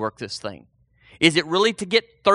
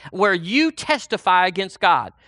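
ordinary talk, nothing marked

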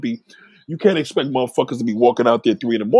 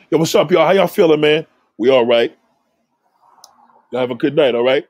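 calling out cheerful and louder across the street; big hearty hello to the guys over there; booming mock-friendly hello; loud friendly greeting; 2 semitones higher, 5 dB louder than usual.

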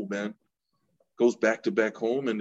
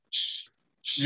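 hushed shush, half whispered; librarian shushing whisper. Retold or imitated. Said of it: "Always trying to shush somebody".

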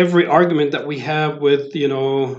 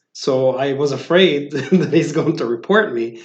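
laughing while quoting. Retold or imitated. Retelling funny story, laughing.

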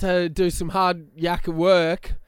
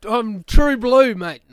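ocker Aussie; 3 semitones higher, 4 dB louder, slower than usual. Retold or imitated. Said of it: "you sound like Carl Barron then".

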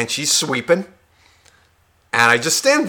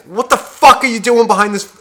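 inner rant; 7 semitones higher, 4 dB louder than usual. Retold or imitated. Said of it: "in my head".

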